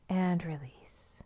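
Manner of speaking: falling, breathed-out letting go; soothing release. Real, not acted. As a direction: let all the tension fall away on the words. Letting go after peak of tension.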